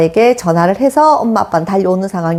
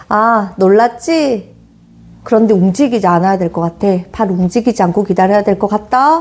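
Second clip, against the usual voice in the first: calm reassuring. Retold or imitated. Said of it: "남편의 표정과 말투가 어땠을 것 같냐면".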